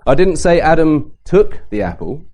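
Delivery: "took" punched with a rise; emphasis on "took" to question how he got it; stress on took. Shown as a demonstration. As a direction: hit "took" as if he got it some other way. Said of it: "Was he given the apple?".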